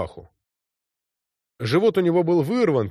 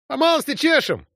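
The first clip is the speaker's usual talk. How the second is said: cheerful shout; 13 semitones higher than usual. A narrator's reading. Platoon leader galloping up, cheerful shout. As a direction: shout it gaily while galloping up. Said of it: "закричал он весело".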